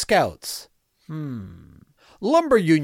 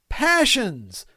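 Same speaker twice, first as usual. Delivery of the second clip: appalled; 7 semitones higher than usual. Acted. Appalled at the TV show.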